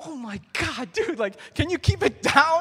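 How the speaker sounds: very high, very loud, shrill, embarrassed, mortified voice. Retelling his reaction to a guy talking at high volume, retelling being mortified. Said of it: "I'm like mortified".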